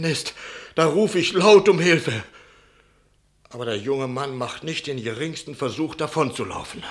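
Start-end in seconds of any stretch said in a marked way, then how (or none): 0.7-2.2 raised voice. Acted. Innkeeper recalls crying for help.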